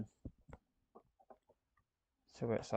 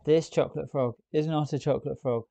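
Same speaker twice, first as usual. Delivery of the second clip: exasperated; 3 semitones higher, 8 dB louder than usual. Real, not acted. Exasperated complaint about frog.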